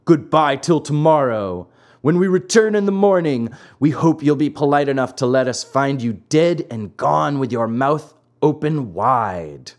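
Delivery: lightly taunting farewell; mocking. Assassins leave the hanged puppet till morning, mildly mocking. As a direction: call out with a touch of mock politeness. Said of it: "called to him mockingly".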